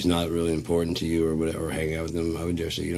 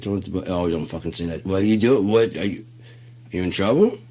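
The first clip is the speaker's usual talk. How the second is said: panicked yell; 2 semitones higher, 7 dB louder than usual. Retold or imitated. Dude shouting at friend over strange goodnight call, panicked. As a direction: demand whether he's in trouble.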